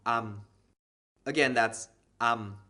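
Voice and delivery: Thai "am" said clearly; vowel sound. Shown as a demonstration. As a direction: say "am" cleanly, twice. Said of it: "going to make the sound".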